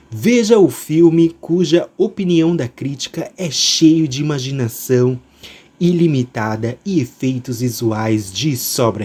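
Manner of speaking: slow, smooth trailer read; velvety narrator voice. Acted. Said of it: "minha voz aveludada".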